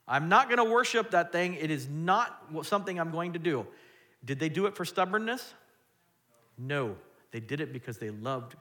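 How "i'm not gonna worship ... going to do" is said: firm refusal. Retold or imitated. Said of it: "the three refusing the king".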